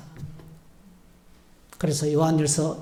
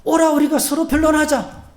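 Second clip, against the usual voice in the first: emphatic call; 8 semitones higher than usual. Shown as a demonstration. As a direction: proclaim it as God's call. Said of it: "어떻게 자백합니까?". (힘차게 부르는 선포)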